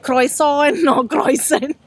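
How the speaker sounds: "croissant" Anglicised as croy-son, then croy-sn; mock mispronunciation. Shown as a demonstration. Teasing co-host's French, "croissant" mangled with an English oy vowel. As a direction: say "croissant" wrongly with an oy in it. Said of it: "At least I don't call it".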